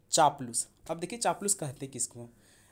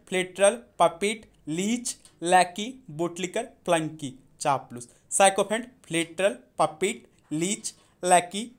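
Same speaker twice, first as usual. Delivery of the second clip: the word list called out louder for the class to join; louder read-along; 5 dB louder than usual. Shown as a demonstration. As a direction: lead the chorus of words loudly. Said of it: "चलिए बोलते हैं".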